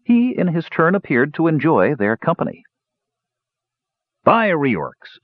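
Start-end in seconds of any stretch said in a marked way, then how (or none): 4.2-5.2 higher admiring exclamation from a dwarf. A narrator's reading. Dwarf to his drinking companions, admiring. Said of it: "said the dwarf admiringly".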